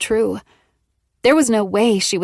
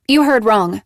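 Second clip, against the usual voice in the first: flatly; 2 semitones higher, 6 dB louder than usual. Acted. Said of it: "Maggie said flatly".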